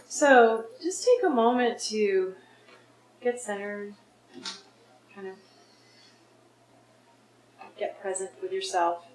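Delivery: unhurried guidance with long pauses; guided meditation. Real, not acted. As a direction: lead them inward, phrase by phrase. Leads a guided forgiveness exercise.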